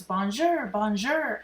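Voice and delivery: lightly voiced parrot greeting; bird voice. A narrator's reading. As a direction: bird repeating its hello. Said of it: "in bird voice".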